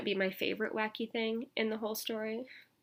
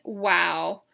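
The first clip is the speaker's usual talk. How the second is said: surprised wow; 3 semitones lower, 11 dB louder than usual. Acted. Exclaims at wacky things.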